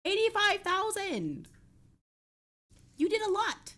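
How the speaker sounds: high, amazed cry at the number; thrilled streamer squeal; excited disbelief. Real, not acted. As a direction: gasp it out, blown away. Reacting to big points redeem.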